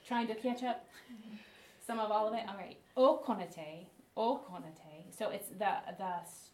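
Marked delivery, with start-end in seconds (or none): 3.0-5.2 Okonate slow and low, leaning on the K; emphasis on K. Shown as a demonstration. Teacher showing the movement to students, emphasis on Okonate's K. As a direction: hit the K in Okonate, stretching the word out. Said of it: "the emphasis is on k".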